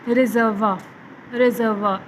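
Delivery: रिजर्वा said as separate, careful word, "re-zer-va"; pronunciation demo. Shown as a demonstration. Teacher showing students how reservoir is pronounced, careful demo of रिजर्वा. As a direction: model the sounds of रिजर्वा, ending in an open "va". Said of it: "इसकी pronunciation बनती है".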